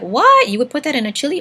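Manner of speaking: shocked high "What?", disbelieving; incredulous. Retold or imitated. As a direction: react in disbelief. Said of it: "I was just like".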